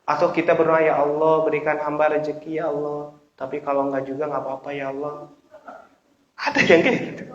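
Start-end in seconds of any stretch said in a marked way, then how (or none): 0.8-5.3 soft, trailing-off request; ask, then let it go limply; half-hearted prayer. Acted. Preacher mocks an unconvinced prayer for provision, half-hearted. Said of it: "Nggak yakin".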